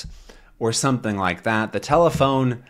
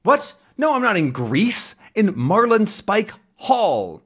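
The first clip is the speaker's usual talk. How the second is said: comic phone call voice; 11 semitones higher than usual. Acted. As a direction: voice the characters shouting down a bad phone line. Reading comic dialogue aloud.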